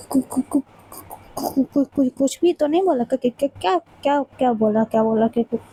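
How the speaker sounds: nervous stutter after being caught; caught-out stammer. Acted. Riya stammers after being caught insulting. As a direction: stumble over every syllable.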